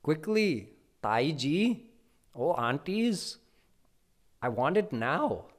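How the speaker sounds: put-on high, loud impatient little boy; agitated child. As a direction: hurry the aunties like a spoiled toddler. He's getting more and more agitated.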